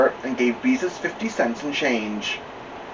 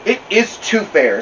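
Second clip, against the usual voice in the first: calm; 8 semitones higher, 4 dB louder than usual. Acted. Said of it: "said Beezus calmly".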